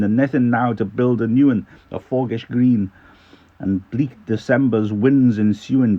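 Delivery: loud Scottish poetry recital; Scottish accent. Acted. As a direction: declaim the verse in a Scots accent. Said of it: "in a bit of a Scottish accent".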